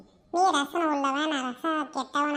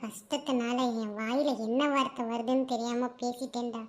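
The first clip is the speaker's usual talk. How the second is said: remorseful apology; 3 semitones lower, 3 dB quieter than usual. Acted. Lovesick man apologising to his friend, remorseful and subdued. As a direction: apologise with a heavy, wounded heart.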